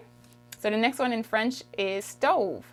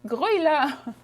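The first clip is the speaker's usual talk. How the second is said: louder, higher Quebec hurry-up call; Quebec slang urging; 4 semitones higher, 3 dB louder than usual. Retold or imitated. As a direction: hurry someone along Quebec style. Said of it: "We say".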